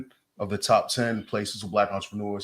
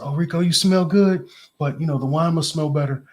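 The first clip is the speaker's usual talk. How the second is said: imitating an African lady's French accent, higher and louder; a fond higher, louder French-accented impression of his mentor; French-accented mentor praising him, pitched up and louder; 7 semitones higher, 5 dB louder than usual. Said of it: "She's an African lady with a French accent".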